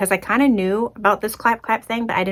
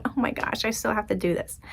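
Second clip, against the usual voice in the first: softer, half-whispered groan of dread; hushed dread; 10 dB quieter than usual. Retold or imitated. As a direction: mutter it under your breath. Retold tense morning self-talk.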